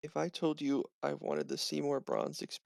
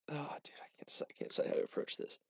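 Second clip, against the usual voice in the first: whispering; 5 dB quieter, faster than usual. Real, not acted. Player torn, aside to table.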